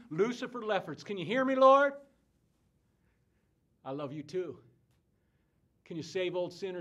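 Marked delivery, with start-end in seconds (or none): 1.0-1.9 rising to a loud, high cry; preacher hollering a prayer; calling to God. Acted. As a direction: call up to heaven, loudest on the last word.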